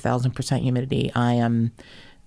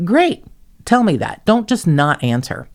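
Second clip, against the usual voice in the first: sarcastic; 5 semitones higher, 5 dB louder than usual. Retold or imitated. Sarcastic complaint about police.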